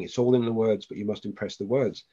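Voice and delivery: barely voiced kid, sing-song and fading; child's voice. A child's voice in the dream repeating the words, lightly voiced and fading. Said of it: "the kid's voice kept saying".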